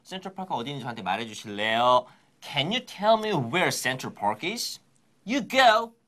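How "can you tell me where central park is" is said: very slow, word by word; slow repeat-after-me sentence; slow model read. Shown as a demonstration. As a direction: drag each word out so students can follow. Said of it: "큰 소리 하세요".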